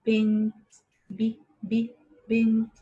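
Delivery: "بنت" called out loud, then "ب، ب" and "بنت" again loud; loud sounding out. Shown as a demonstration. Teacher to children in a drill, calling "بنت" out loud. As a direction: call the word out loud for the class. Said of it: "سورة بنت".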